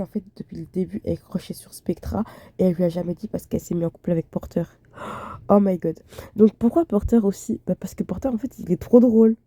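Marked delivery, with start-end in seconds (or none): 0.0-4.6 fast conspiratorial whisper; hushed and quick, like spilling a secret; gossipy whisper. Pretend. Whispering a fan theory to viewers, gossipy whisper.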